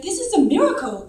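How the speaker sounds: retold amazement, high and loud; amazed declaration. Surgeon telling the mother what he found, amazed declaration.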